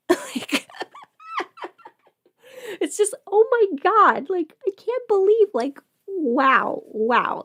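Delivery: high, loud laughing disbelief. Real, not acted. Telling viewers about her boots, laughing in disbelief.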